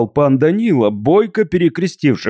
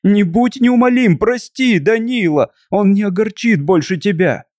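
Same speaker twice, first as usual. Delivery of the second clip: begging daughter; 7 semitones higher than usual. A narrator's reading. Daughter begging her father.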